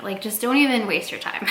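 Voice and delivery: breathy dismissive whisper. Real, not acted. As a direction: whisper it, brushing them off. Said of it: "dismissive whisper to haters".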